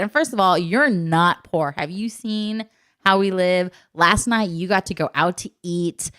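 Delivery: emphatic parental lecture, mildly heated; going off on child. Retold or imitated. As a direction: lecture a child with slow, weighted key words. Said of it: "went off on Anna".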